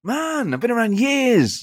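high, exasperated protest; Lallana. Acted. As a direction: act fed up with being chanted at. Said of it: "that's what he does when people sing it".

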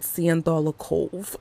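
imitating an animated character's pronunciation; animated character's accented delivery. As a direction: say it like the cartoon character, oddly pronounced. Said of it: "it's the way that she says it".

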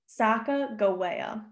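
SACAGAWEA said with a hard G, as sah-kah-go-WAY-ah; actual pronunciation. Shown as a demonstration. Host showing listeners the true name, Sacagawea with a hard G. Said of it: "the actual pronunciation".

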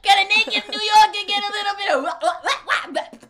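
high loud excited babble. Pretend. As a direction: rattle it off giddily. Excited mock rant.

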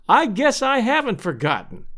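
high-pitched, emphatic neighbour woman; hearty declaring. A narrator's reading. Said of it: "she declared".

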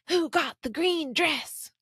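high, slow, whiny demand. Retold or imitated. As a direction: whine it like an entitled shopper. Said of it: "loud, whiny voice from a lady".

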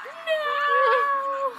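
shout. Retold or imitated. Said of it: "inside he's like".

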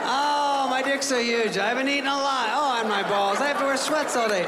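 high-pitched, hammed-up wailing complaint; mock crying. Sarcastically pretending to be worried about gaining weight, mock crying. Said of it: "worried about it and crying".

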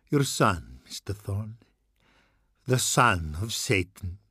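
a terrified priest warning the father; doom-laden priest. Acted. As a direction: hammer each "will", then drop it to a hush. Tassone's warning to Thorn.

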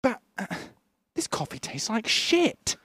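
lightly voiced Austin Powers; Austin impression. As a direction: deliver it deadpan like Austin. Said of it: "he goes".

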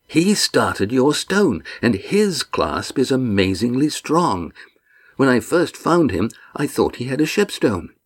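lightly voiced rough sailor dawning on it; a hint of a homespun deckhand, slowly realising; Walt, amazed sailor. A narrator's reading. Walt explains, slower.

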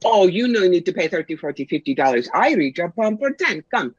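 broken English in a lightly put-on fake Russian accent; mock fake Russian accent. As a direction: imitate the fake gypsy's hard-sell pitch in a hint of a Russian accent. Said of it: "bad Russian accent".

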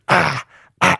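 short grunted ah noises; imitated noises. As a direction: imitate his odd little noises. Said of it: "he makes those noises".

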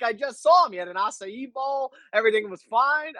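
high, incredulous disbelief; baffled protest. Retold or imitated. Guest retelling his reaction to the host, high incredulous. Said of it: "I'm like".

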